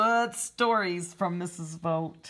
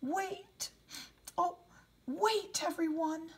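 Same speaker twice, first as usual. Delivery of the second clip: bear calling out; 12 semitones higher, 5 dB quieter than usual. Acted. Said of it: "And the bear says".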